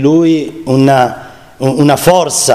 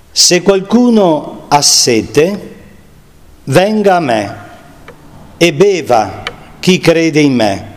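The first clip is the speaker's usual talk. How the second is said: gentle solemn proclamation; solemn scripture reading; 2 semitones higher than usual. Acted. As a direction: proclaim it like Jesus crying out. Rereads the Gospel text.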